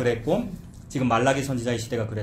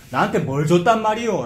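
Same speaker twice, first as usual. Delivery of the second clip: acted indignant retort, pitched up; accusing challenge; 4 semitones higher, 4 dB louder than usual. Preacher voices people disputing God's gift, accusing. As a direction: throw the question back as a complaint. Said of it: "라고 따지고 있는".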